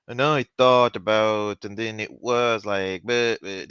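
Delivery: slow, drawn-out imitation of a monotone talker; one-stream imitation. Showing co-host how a radio host talks, in one stream. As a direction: run the words together in one slow stream. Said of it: "like, in one stream".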